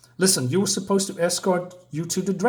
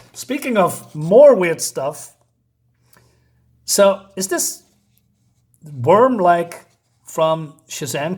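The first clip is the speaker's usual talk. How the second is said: laughing; 6 dB louder, slower than usual. Real, not acted. Amused by weird comic panels.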